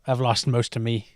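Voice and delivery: lightly voiced old English rocker; a famous singer. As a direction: loose impression, low-key and halting. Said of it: "that's not how he sounds".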